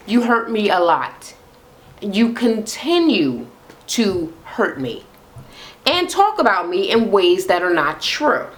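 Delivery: calm. Shown as a demonstration. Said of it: "let me say this calmly".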